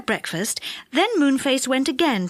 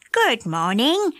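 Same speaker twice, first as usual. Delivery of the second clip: witch voice; slower than usual. Acted. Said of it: "said the witch".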